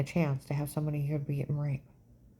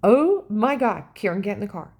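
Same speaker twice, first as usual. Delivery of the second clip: imitating a frantic, whispered plea, higher; panicked whisper; 3 semitones higher, 6 dB louder than usual. Boyfriend Dave panicking at Walmart, urgent mock whisper. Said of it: "Dave starts freaking out".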